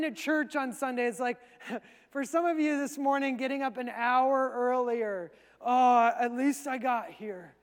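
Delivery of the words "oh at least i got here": mock weary grumble on a heavy "oh"; reluctant. Churchgoer who got up early for Sunday church, reluctant. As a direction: act like a grudging, half-hearted arrival. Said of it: "this is reluctantly. That's reluctantly".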